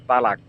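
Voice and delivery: তালাক in the plain Bengali way; plain Bengali talak. Shown as a demonstration. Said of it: "তা এবং মধ্যখান পেছানো কাফ".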